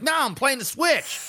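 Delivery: lightly voiced bored kid, high and slow. Son on the sofa brushing off his dad, slow and bored. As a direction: drag it out like a kid who can't be bothered.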